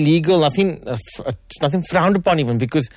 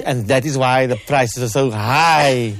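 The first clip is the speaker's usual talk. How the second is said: laughing; 3 semitones lower, slower than usual. Real, not acted. Joking about prices.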